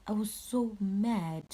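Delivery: slow, drawn-out exasperation; mad. Retold or imitated. Caller recalling treatment by the cops, mad.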